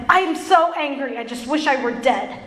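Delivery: mock-dramatic despair, lightly played; a touch of melodrama, ending in a laugh; dramatic Jonah. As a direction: overstate the grievance, then drop off. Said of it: "so dramatic".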